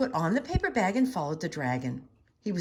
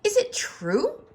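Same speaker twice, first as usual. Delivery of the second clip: sweet coaxing; 13 semitones higher, 5 dB louder, slower than usual. A narrator's reading. Elizabeth's high coaxing voice.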